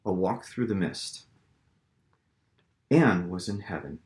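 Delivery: measured storytelling voice; story narration. A narrator's reading. Author reading his fantasy novel aloud, steady narration. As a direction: read it like an audiobook chapter.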